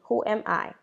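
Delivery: soft unvoiced whisper of the gloss; hushed teacher's whisper. Shown as a demonstration. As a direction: breathe it as a quiet aside.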